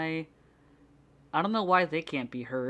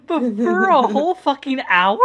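laughing; 10 semitones higher, 10 dB louder than usual. Real, not acted. Laughing in disbelief at stream.

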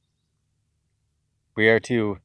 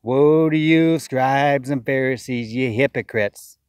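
raised, slow scripture proclamation; a preacher's slow, ringing rebuke; quoting Christ; slower than usual. Retold or imitated. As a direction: thunder it out like a prophet. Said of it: "Christ said the same thing".

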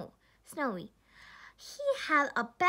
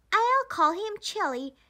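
put-on a proud child naming his snowman, pitched up; 6 semitones higher, 4 dB louder than usual. A narrator's reading. Jack proudly names his new snowman, a proud lift. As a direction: say it proudly, pleased with himself. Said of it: "he said proudly".

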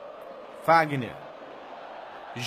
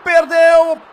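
loud, slow cry of despair; anguished shout; 5 semitones higher, 6 dB louder, slower than usual. Real, not acted. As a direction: yell the miss in anguish. Big chance missed live.

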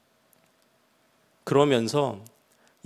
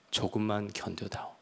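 조금만 견뎌다오 repeated softer, fading almost to a hush; God repeating his plea to Yubi, softer and fading; 3 semitones lower, 9 dB quieter than usual. Retold or imitated. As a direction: let the repeat sink into a tender hush. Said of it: "주님의 음성을 들은 거죠".

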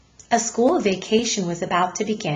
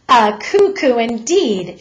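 louder, slow and indignant; angry; 3 semitones higher, 6 dB louder than usual. Acted. Mother scolds the policeman, slow and angry. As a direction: throw his words back at him. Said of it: "turned angrily to the policeman".

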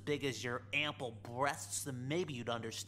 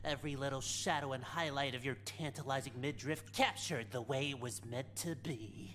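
vintage cartoon voice. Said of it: "talk like a cartoon character".

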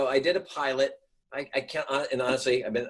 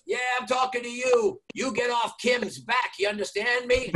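much higher, shouted scolding; shouting jogger; 9 semitones higher than usual. Retold or imitated. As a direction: shout like a fan defending a character. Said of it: "he goes".

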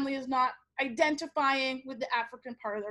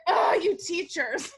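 slow, exasperated mock scolding; mildly hammed-up parental annoyance; mad mother; slower than usual. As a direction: imitate a fed-up mom, drawing the words out. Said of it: "then she gets mad at me".

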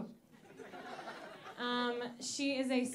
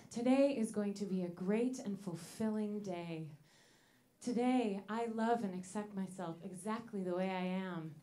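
calm affirmations; 3 semitones lower, 4 dB quieter than usual. Retold or imitated. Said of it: "say positive affirmations".

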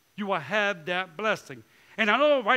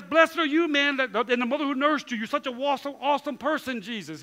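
gushing admirer; 3 semitones higher than usual. Retold or imitated. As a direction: overdo the flattery. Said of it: "Jesus says".

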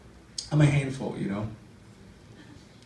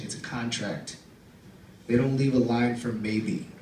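deliberate, declaiming poem recital; poem reading. Acted. Comic reading his poem about Katsumi, declaiming. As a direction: read the poem with deadpan weight.

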